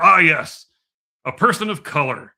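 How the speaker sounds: a loud, smug "Ah, yes" settling into a pompous verdict; hammed-up corporate certainty; mock HR pronouncement. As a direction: play a self-satisfied HR officer handing down a ruling. HR department confidently declaring.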